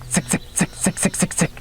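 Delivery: unvoiced, breathy "sick, sick"; whispered sick. Shown as a demonstration. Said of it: "or you can go sick".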